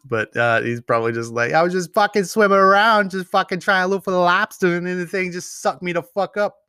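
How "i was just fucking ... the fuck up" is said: high, loud mock Boston accent as the diver; a hammed-up Boston lobster diver; Boston accent impression. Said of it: "I can't do a Boston accent".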